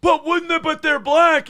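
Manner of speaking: high-pitched mock liberal voice; squeaky mocking questioner. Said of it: "they're like".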